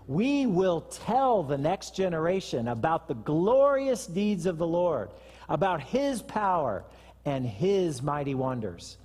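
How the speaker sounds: slow, solemn reading of the psalm; scripture reading. Acted. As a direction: read the verse slowly, like a promise. Reads Psalm seventy-eight aloud.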